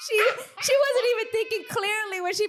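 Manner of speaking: high-pitched talk through laughter; real laughter breaking through the words; laughing. Real, not acted. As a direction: say it while cracking up. Laughing at Anna's outfit.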